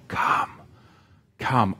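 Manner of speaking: soft soul cry. Shown as a demonstration. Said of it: "to cry from our very deep soul".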